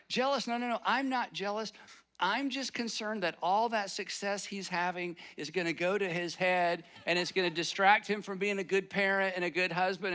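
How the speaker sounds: mock-defensive protest, lifted in pitch at the start; acted-out self-justifying excuse; defensive denial. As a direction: play someone insisting they are not jealous. Acting out jealous person's denial.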